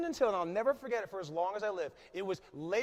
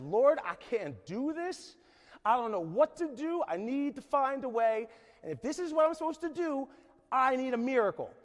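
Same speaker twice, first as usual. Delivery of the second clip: retold desperate prayer; 4 semitones higher than usual. Retelling his prayer on his knees, raised pleading. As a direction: beg God for help, voice rising. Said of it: "I just said".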